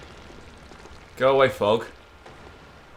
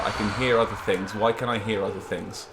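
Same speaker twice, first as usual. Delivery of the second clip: panicking; 3 dB quieter than usual. Real, not acted. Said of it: "Sorry, I'm panicking".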